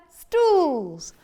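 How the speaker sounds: slow, loud lecturing cat; bossy cat. Acted. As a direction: recite the rule like a smug cat. Cat continues rule.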